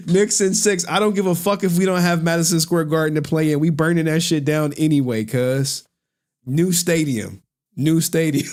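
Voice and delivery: hyped sports fan. Retold or imitated. Imitating a New York streamer ranting about the Knicks, hyped fan. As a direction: imitate a diehard supporter getting carried away.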